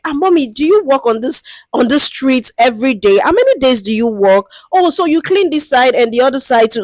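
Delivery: a chatty, friendly hello to an elder; lightly voiced friendly researcher. Shown as a demonstration. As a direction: ease in gently like greeting a street cleaner you respect. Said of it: "just start on a very light note with them".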